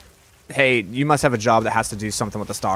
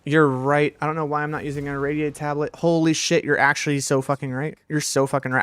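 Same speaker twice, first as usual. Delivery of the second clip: excited realization; 4 semitones higher than usual. Real, not acted. Streamer telling chat they're right, excited. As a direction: blurt it out as it finally clicks.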